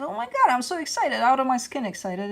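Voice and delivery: high-pitched thrilled gush; teasingly imitating giddy excitement; mock over-excited. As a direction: act like you're jumping out of your skin. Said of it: "And it feels".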